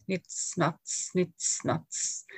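soft ticking nits nats like clicking doors; quiet clipped clicks, said well below the reading voice; clicking noise. Acted. Poet softly imitating ambulance doors clicking.

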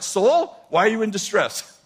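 David addressing his soul. Retold or imitated. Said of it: "He's like".

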